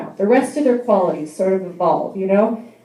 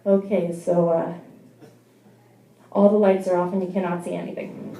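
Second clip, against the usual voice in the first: mock phone sex; 3 semitones lower, 6 dB quieter than usual. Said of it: "phone sex with me would just sound like".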